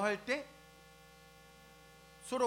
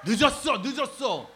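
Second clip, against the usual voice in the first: much louder, higher yelled call; shouting late; 5 semitones higher, 12 dB louder than usual. Retold or imitated. Youths shouting at the lecturer that he's late. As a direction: call out urgently that they're late.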